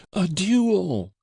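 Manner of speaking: high, loud breathless shout; spluttering yell. Acted. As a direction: spit out the word in a wild yell. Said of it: "yelled the old wretch again, breathless and spluttering".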